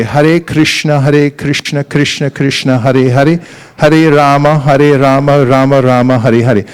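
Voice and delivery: every syllable of "Hare Krishna" pronounced distinctly; clearly enunciated mantra. Shown as a demonstration. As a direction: enunciate each syllable of "Hare Rama" carefully. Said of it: "enunciate when you speak, mantra, you say".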